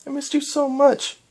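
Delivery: high halting voice, stunned; stunned disbelief. Acted. Voices Cadance.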